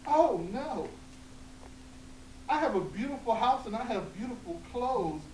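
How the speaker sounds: put-on high, loud fussy old woman; hammed-up old woman fretting. Old woman voiced in told story.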